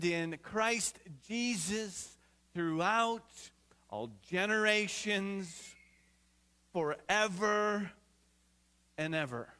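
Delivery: slow, weighty reading of the verse; measured, reverent Bible reading from the pulpit; solemn scripture reading. Acted. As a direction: read each phrase slowly with long pauses.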